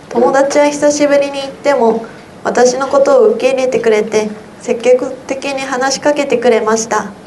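ordinary delivery

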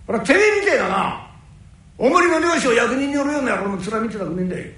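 angry. Acted. Tetsu rejecting the old man.

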